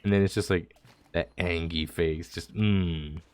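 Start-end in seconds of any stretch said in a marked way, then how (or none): 1.1-2.3 soft "angy" with a pout; mock grumpy "angy". Shown as a demonstration. Describing the lamb's face, "angy" murmured softly. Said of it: "angy face".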